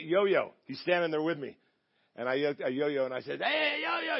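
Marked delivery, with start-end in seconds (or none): 3.4-4.2 mock yell. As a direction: imitate hollering over the wind. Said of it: "you gotta yell 'cause the wind's coming in".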